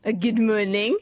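lightly mock René "good moaning", rising; sitcom catchphrase. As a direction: play the catchphrase from the sitcom with a wink. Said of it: "we have to say good morning".

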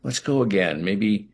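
a light, slow, drawn-out take on the director musing; imitating David Lynch. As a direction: lazily mull it over the way the director did. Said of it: "or he'd just say".

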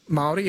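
"Maori" with the A said as in mole; correct Maori pronunciation. Shown as a demonstration. Host explaining the vowel to a caller, "Maori" with mole sound. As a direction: say "Maori" with a mole-like first syllable. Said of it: "is just said that way".

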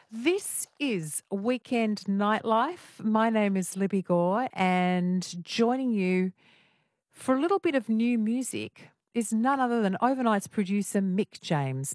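drawn-out, measured presenter introduction; radio host intro. Real, not acted. Host introducing the new music guest to listeners, slow radio intro. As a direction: stretch the show name and names like a radio announcer. Host announces the next segment.

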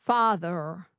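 FATHER with the final R sounded; American rhotic R. Shown as a demonstration. Student repeating after coach, father with American R. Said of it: "Can you say that?".

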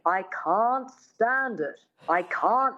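slow, rounded, careful mid-Atlantic take; lightly voiced elocution teacher, drawn out; dialect coach voice. Coach correcting her pupil's vowels, slow and proper. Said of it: "her dialect coach says".

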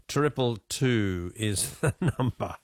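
real suppressed laughter. Real, not acted. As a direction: hold back a laugh while giving the number. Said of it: "why am I laughing at this".

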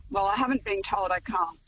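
ordinary talk

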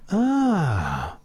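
short voiced ah sound; just say ah, no words; nonverbal ah. Shown as a demonstration. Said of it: "So if I went to you".

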